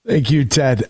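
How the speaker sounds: ordinary talk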